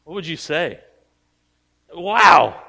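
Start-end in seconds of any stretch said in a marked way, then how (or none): 1.9-2.6 loud wow rising into very high drawn-out squeal; hammed-up astonishment, pitched way up; amazed outburst. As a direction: play a stunned onlooker, high and slow. Acting out an amazed crowd reaction.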